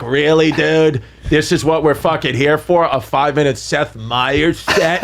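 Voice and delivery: slow, lightly mocking disbelief; slow retold put-down; Bobby Kelly. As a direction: imitate an unimpressed comic, drawn out. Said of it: "Bobby Kelly like".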